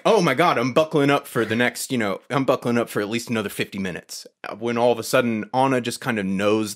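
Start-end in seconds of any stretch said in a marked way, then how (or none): 0.0-4.2 buckle up with excitement; eager anticipation. Retold or imitated. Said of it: "I'm like".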